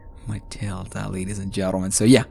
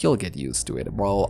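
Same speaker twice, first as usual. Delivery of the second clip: low reassurance; 3 semitones lower, 7 dB quieter than usual. Retold or imitated. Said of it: "and she's like".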